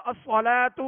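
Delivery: "الصلاۃ" recited as as-salaatu; voweled ta. Shown as a demonstration. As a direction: end "الصلاۃ" on a sounded -tu. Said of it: "یوں کہہ کر نہیں".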